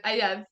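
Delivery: put-on "I love" merged into one toddler word; smushed together. Toddler says it then giggles, "I love" smushed together. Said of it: "It's, like, really smushed together".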